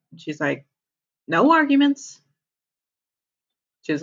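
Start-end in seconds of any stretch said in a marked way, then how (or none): 1.3-2.2 high, firm no-nonsense cut-off; bossy insistence. Retold or imitated. Girlfriend overruling Charlie about the ride, high and firm. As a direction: shut him down cheerfully but firmly.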